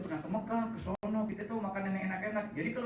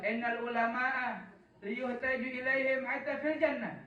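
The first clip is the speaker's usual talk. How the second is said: slow Arabic recitation; slower than usual. Acted.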